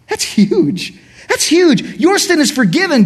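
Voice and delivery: high, ringing proclamation; preacher's rising exclamation. Real, not acted. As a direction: lift it up and proclaim it. Preacher emphasizing forgiveness.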